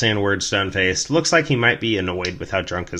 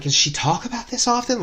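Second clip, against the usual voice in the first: nervous question. Retold or imitated. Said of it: "And I'm like".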